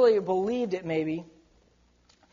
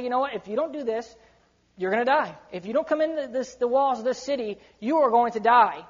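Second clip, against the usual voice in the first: emphatic warning. Retold or imitated. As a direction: drive the warning home, dead serious. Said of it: "he was very emphatic about it".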